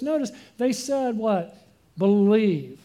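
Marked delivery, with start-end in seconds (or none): 2.0-2.8 a single word, louder and set apart; proclaimed. Acted. Preacher answering the jailer for the church, one loud word. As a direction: ring out "Believe" as the whole answer.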